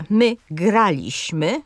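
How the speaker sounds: graliśmy said slowly, stress on GRA, the third-last syllable. Shown as a demonstration. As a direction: draw out graliśmy, leaning on GRA. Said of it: "Na trzecią sylabę od końca akcent pada".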